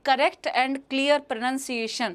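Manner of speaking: each word spelled out slowly and clearly; teacher models careful diction for students, slowly; slow careful demo. Shown as a demonstration. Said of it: "spellings के लिए एक चीज़ पे ध्यान".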